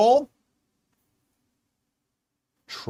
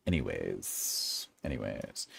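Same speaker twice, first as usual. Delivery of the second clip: much lower, slow deep voice; deep joke voice; 17 dB quieter, slower than usual. Pretend. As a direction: drop way down for a comic anyways. Drops into a joke voice.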